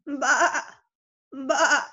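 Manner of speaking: put-on a playful sheep baa for kids; sheep bleat. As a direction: bleat it like a lamb for the children. Story time, animal sounds.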